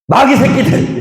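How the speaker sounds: high yelled curse, hammed up; mock insult. Preacher voicing Isaac cursing the herdsmen, mock angry. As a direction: spit out the insult in mock rage. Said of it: "이런 거 한 거예요".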